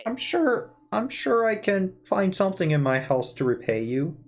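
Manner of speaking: lightly voiced old man; a hint of an eager old man. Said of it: "this is my default old man voice".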